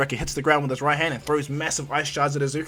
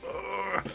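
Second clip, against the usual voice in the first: soft, higher-pitched groan of effort; straining groan; 5 semitones higher, 10 dB quieter than usual. Acted. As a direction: groan under a heavy load. Tokiyami strains to fly everyone.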